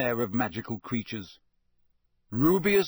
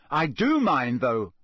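a touch of heat, slightly louder; hotly; 5 dB louder, slower than usual. Acted. Harry pressing the teacher about Hagrid, mildly heated. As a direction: push back with mild heat. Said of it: "said Harry hotly".

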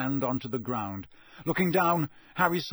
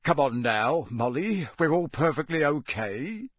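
soothing; 3 dB louder than usual. A narrator's reading. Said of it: "said Mister Weasley soothingly".

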